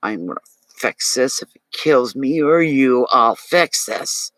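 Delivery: a hint of a threatening friend, slowing way down on the last words; lightly voiced menacing vow; half-playful imitation of a threat; mock threat. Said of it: "they would threaten".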